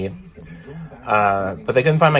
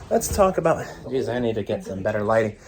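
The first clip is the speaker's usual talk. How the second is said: out of breath. Real, not acted. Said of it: "Sorry I'm a little winded".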